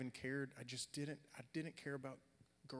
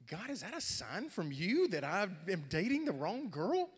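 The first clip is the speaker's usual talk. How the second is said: high, loud, wildly wavering wail to heaven; exaggerated swooping, distraught question; hammed-up panicked plea; 6 semitones higher, 10 dB louder than usual. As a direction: cry out to God in mock alarm. Acts out panicked question to God.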